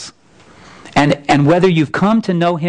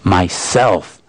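lower, slow and weighty; deep and low; 7 semitones lower than usual. Acted. The lion names himself to Shasta, deep and low. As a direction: let it rumble like the earth shaking. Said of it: "very deep and low so that the earth shook".

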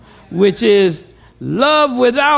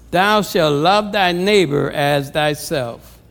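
lower, measured reading of the verses; scripture reading; 4 semitones lower than usual. Acted. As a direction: read the verses like it's the holy word. Reads scripture aloud in church.

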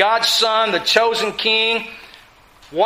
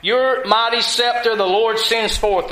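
"Your" leads the phrase, pressed and lifted, "mighty scepter" weighted before "the Lord sends forth"; emphasis on your mighty scepter; 3 semitones higher than usual. Shown as a demonstration. Preacher showing the congregation the fronted words, with weight on "Your mighty scepter". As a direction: lean on "Your mighty scepter" to show the Hebrew word order. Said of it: "They're putting emphasis on that".

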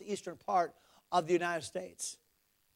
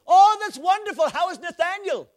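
high, delighted mimicked shout; Brother Vic; 11 semitones higher, 11 dB louder than usual. Missionary asking after the eldest son, imitated as shouting. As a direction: holler it like a hearty phone caller. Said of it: "Why are you shouting?".

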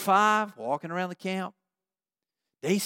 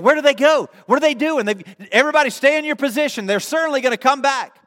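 higher-pitched, agitated watchman's call; urgent lookout; 5 semitones higher, 4 dB louder than usual. Acted. Canaanites watch the Israelites leave, urgent lookout. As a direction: keep the whole wall on alert. Anxious watchmen on the city wall.

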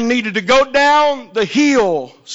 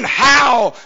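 slow, drawn-out mock scream; anguished cry, mildly acted; retold scream; 2 semitones higher, slower than usual. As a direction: wail it out word by word, without full volume.

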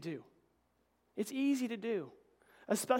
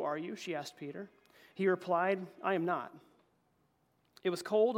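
scripture reading; 3 dB louder than usual. Acted. Reads scripture aloud.

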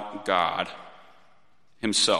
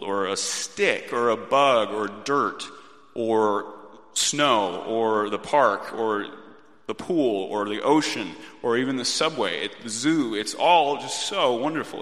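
building wonder; 2 semitones higher, 3 dB louder than usual. Retold or imitated. Mimics child's building wonder.

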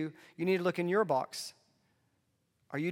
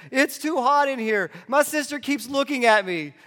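mimicking a whiny toddler complaining; whiny kid voice; 9 semitones higher, 11 dB louder than usual. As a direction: whine it like a cranky child. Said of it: "he gets whiny".

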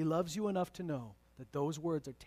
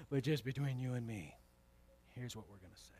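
much softer, a secret between spouses; hushed confiding; 7 semitones lower, 9 dB quieter than usual. Pretend. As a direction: drop it to a confidential hush. Confiding just between you and me.

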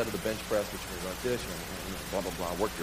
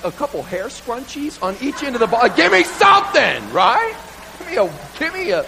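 eager pleading; 4 semitones higher than usual. Retold or imitated. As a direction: beg the coach for more. Pleading for more weight.

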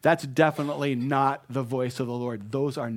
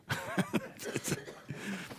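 breathy laugh; 7 semitones higher, 9 dB quieter than usual. Real, not acted. Laughing at treadmill image.

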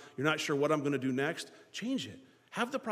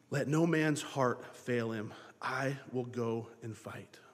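solemn verse; 4 semitones lower, slower than usual. Acted. Solemn quoted verse, slowed.

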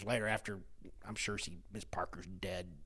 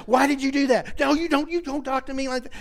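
higher, louder mock yell at a kid; retold teacher yell; 10 semitones higher, 5 dB louder than usual. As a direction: imitate the teacher shouting down at you. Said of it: "as she's screaming at me".

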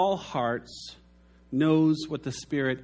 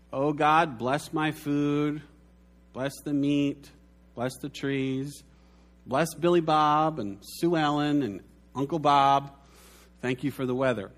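mock rote prayer. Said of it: "First category is".

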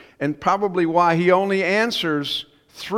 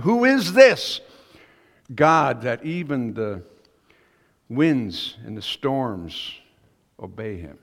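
awed cry; 3 dB louder, slower than usual. Retold or imitated. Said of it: "And I can imagine him saying".

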